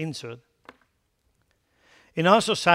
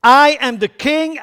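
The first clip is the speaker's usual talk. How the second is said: proclaiming king; 7 semitones higher, 10 dB louder than usual. Retold or imitated. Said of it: "Jesus comes to the scene and said".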